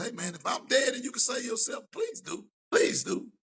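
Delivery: half-whispered urgent plea, the last please pitched high; mock earnest plea to partners; pleading with friends. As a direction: beg your boys to save themselves. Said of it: "I told all my partners".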